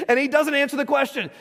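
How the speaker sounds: talking through a real chuckle; words bubbling with laughter; amused, laughing aside. Real, not acted. Laughs at own joke.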